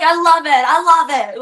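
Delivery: bad Irish accent impression. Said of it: "Your Irish accent is terrible".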